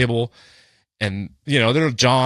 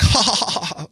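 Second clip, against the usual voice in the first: high, mock drunken giggle; put-on silly ha-ha laugh; Ken; 8 semitones higher than usual. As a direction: imitate a tipsy man tittering. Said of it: "just giggling and being like".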